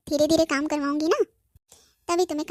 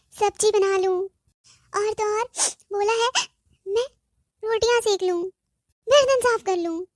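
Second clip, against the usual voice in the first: tearful whining; 3 semitones higher than usual. Acted. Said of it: "तू हर time रोते रोते call क्यों करती है".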